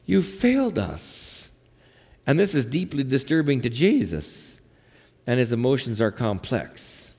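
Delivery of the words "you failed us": slow, wounded reproach; retold reproach, deliberately paced; accusation. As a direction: accuse someone who let you down, drawing out each phrase. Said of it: "There's this accusation".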